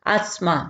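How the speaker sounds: अस्थमा said as asma with an s sound, no th; अस्थमा pronounced asma for the students. Shown as a demonstration. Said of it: "एस की आवाज ही यहाँ पे निकालेंगे".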